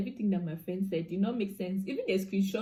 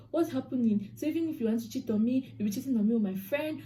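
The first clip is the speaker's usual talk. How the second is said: higher-pitched, exasperated questioning; retold indignant confrontation; 5 semitones higher than usual. Girlfriend confronting cheating boyfriend, retold indignation. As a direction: recount confronting him, mildly worked up.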